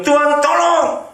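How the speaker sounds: high, pleading cry for help; desperate prayer. Acted. Man hanging in the dark begs God, high and pleading. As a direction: beg God from the edge of a cliff.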